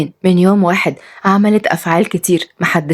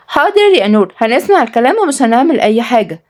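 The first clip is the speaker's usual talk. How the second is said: put-on child voice; 4 semitones higher than usual. Boy answers nanny.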